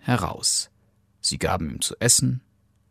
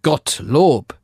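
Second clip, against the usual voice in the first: relieved father exclaiming, pitch raised; higher, delighted character voice; joyful cry; 6 semitones higher, 4 dB louder than usual. A narrator's reading. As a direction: exclaim it full of joy. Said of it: "rief der Vater voller Freuden".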